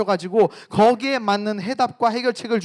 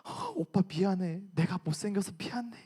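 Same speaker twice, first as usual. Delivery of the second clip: tearful apology; 9 dB quieter than usual. Acted. Girlfriend apologizing to boyfriend for her looks, mock tearful. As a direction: play a whimpering, self-blaming girlfriend. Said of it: "이러면서 막 울면서".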